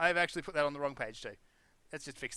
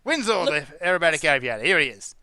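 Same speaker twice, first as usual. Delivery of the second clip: announcer voice; 6 dB louder than usual. Acted. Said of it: "announcer voice".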